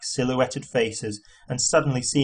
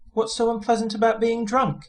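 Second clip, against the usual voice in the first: Arthur voice; 10 semitones higher than usual. A narrator's reading. Arthur's voice, higher.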